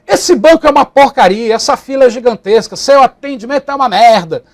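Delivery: loud, indignant rant; angry client complaint. Retold or imitated. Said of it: "dizendo assim".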